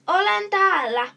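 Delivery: loud, high opening that settles; calling out. A narrator's reading. Hiding chameleon reveals himself to the boys, calling out. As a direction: call out, then ease off. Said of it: "huutaa Kalle".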